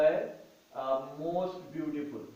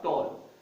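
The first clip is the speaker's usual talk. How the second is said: टॉल said as one single beat; one unbroken syllable; 3 semitones lower, much slower than usual. Shown as a demonstration. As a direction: say टॉल whole, without breaking it. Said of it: "इसको बोलने में हमें लफ्जों को तोड़ना नहीं पड़ा".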